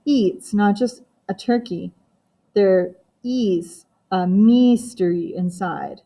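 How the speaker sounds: put-on slow, silly French-accented dad; lightly put-on French accent, drawn out; playful fake French lilt; mock French accent. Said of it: "he said it in a silly voice like a French accent".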